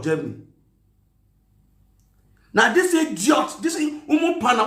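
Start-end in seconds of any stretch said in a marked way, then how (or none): 2.5-4.7 contemptuous raised rant; scornful outburst. Real, not acted. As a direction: raise the voice on "Now this idiot", full of contempt. Insulting the woman, raised voice.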